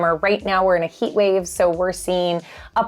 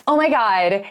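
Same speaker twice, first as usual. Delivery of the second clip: put-on a light valley girl gush; lightly voiced valley girl, a touch bubbly. Shown as a demonstration. Realtor demonstrating valley girl speech, lightly mocking. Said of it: "Examples of speaking like a valley girl".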